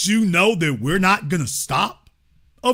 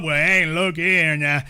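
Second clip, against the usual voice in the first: mock old-timer. Mocking the caller lecturing them, a put-on slow drawl. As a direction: ham up the condescending caller. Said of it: "He show up".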